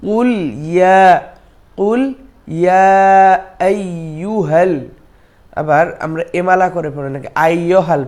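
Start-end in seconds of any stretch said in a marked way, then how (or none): 0.1-2.9 কুল and ইয়া kept apart, not joined into কুলিয়া; separated words. Shown as a demonstration. Teacher shows the correct split of কুল ইয়া. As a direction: break cleanly between কুল and ইয়া. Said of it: "সঠিক হলো".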